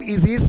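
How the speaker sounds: ईजीज starting on a long ee; AE read as long ee. Shown as a demonstration. Teacher shows students how AE reads, ईजीज with long ee. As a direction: say ईजीज with AE as one ee sound. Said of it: "ई होगा".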